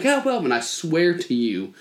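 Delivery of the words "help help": mild imitation of a kid screaming for help; retold scream. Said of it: "screaming, like".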